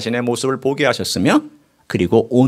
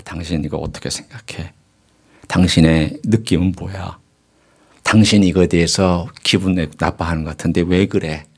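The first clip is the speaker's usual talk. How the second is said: retold gentle asking; 8 semitones lower than usual. 아내에게 조심스레 마음을 묻는 재연.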